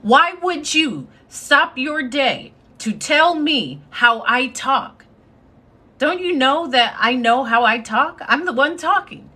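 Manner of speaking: put-on a mild, sassy kid comeback; twelve-year-old answering a bully, mildly sassy. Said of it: "this is what I would say at, like, twelve".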